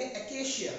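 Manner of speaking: एकेशिया ending in a soft "shiya"; correct pronunciation. Shown as a demonstration. Teacher reads the spelled word for children, correct pronunciation एकेशिया with "shiya". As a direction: read out एकेशिया with sh. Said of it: "ए सी ए सी आई ए को पढ़ेंगे".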